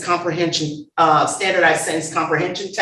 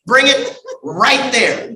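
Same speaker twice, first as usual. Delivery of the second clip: drawn-out, playful dialect voice; lightly hammed-up dialect, slow and drawled; dialect among own people; 3 semitones higher, slower than usual. Speaker imitating folks around their people, playful slow dialect. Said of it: "When you get around your people".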